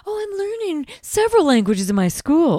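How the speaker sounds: high, showy schoolgirl boast; a precocious child bragging; prissy girl. Retold or imitated. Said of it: "she's like".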